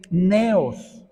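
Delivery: neos said as NE-os; stress on first syllable. Shown as a demonstration. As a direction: say neos with the accent on the E. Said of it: "con acento en la E".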